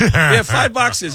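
high, loud, drawn-out insistence; emphatic reassurance. Retold or imitated. Wife insisting to roadie on her boxes, high and emphatic. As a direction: stretch it out as if it solves everything.

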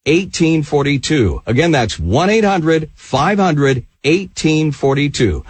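polished infomercial pitch, punching the selling words; brisk direct-response announcer read; radio ad read. Acted. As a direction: sell it to radio listeners.

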